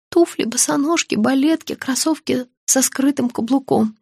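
ТУФЛИ, БОСОНОЖКИ, БАЛЕТКИ as a high, paused list. A narrator's reading. Patient naming shoes from ТУФЛИ onward, high listing. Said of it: "перечислила я".

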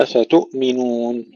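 أفتؤمنون with the hamza bounced into a tiny vowel; bounced hamza, wrong. Shown as a demonstration. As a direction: pop the ؤ in أفتؤمنون instead of stopping. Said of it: "لا نقلقل الهمزة". (أفتؤمنون بقلقلة الهمزة خطأً)

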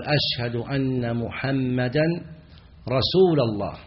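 "محمدا" with a final -a and "رسول" right after, slow; accusative muhammadan. Shown as a demonstration. Teacher demonstrating the error of putting the name in the accusative, slowly. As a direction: pronounce "محمدا" with the accusative ending. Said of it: "فينصبون رسول فيقول".

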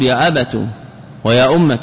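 يا أبت and ويا أمة each ending in "tu"; damma on ta. Shown as a demonstration. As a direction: round the last vowel of أبت and أمة to "u". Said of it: "بالضم".

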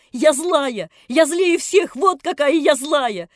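put-on high, loud girl's tearful rant; sobbing shout. A narrator's reading. Nelli defying the narrator, loud sobbing rant. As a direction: rant on through sobs. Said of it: "кричала она, рыдая".

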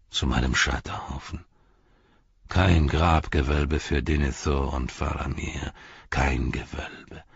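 put-on low, heavy old lord, giving up; a broken steward choosing the pyre; Denethor, grim and despairing. Denethor speaks in the story.

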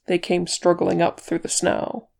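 usual speaking voice

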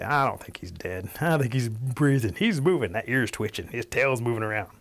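lightly voiced wary turkeys; a touch of growing alarm, noticing each sign; mildly suspicious. Suspicious turkeys inspect the wildcat.

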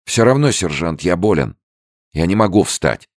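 a hint of a thin, weak young voice; lightly voiced frail soldier, high. A narrator's reading. Young soldier refusing the sergeant, thin and weak. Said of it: "он услышал тонкий голос".

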